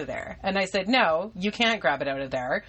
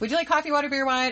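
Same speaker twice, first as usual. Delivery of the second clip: fast, rushed, pitched-up rattled-off delivery; 8 semitones higher than usual. Retelling offering drinks to a man during a rush, said fast. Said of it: "And I say it fast".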